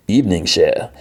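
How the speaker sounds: lightly put-on bad Cajun accent; a hint of a hammy Cajun greeting; Gambit. Gambit greets Rogue at dinner, bad Cajun accent. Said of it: "the worst Gambit accent ever".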